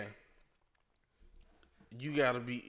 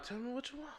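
higher, softer seductive coaxing; romantic bedroom voice; 11 semitones higher, 8 dB quieter, faster than usual. Shown as a demonstration. Showing men what to say in bed, soft seductive coaxing. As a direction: coax her gently, in bedroom tones. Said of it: "my tone of voice".

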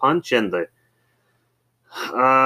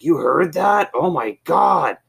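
retold embarrassed dismay; 9 semitones higher, 4 dB louder, slower than usual. Dad embarrassed that caller heard teasing.

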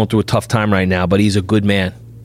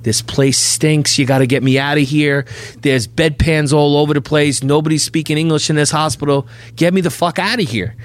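higher-pitched insistent complaint, imitated; fed-up wife; 4 semitones higher than usual. Wife calling husband from the hospital to get her out, imitated fed-up complaint.

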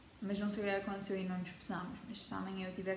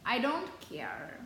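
mock indifference; much slower than usual. Real, not acted. Pretending not to care.

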